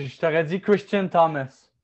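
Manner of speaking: normal talking voice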